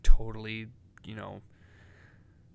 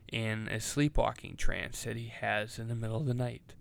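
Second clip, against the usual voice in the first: documentary narrator. Pretend. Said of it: "I'll use my best narrator voice".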